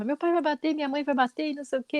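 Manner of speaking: high-pitched mimicked little boy; gloating child. Little boy listing parents who will hit his brother, gloating. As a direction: reel off the threats like a gleeful tattletale. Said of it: "E ele, e ele comemorando".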